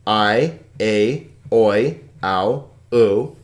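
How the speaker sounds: call-and-response drill. Shown as a demonstration. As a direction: chant "I, a, oi, ow, u" evenly for the class to repeat. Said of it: "Say that with me if you would".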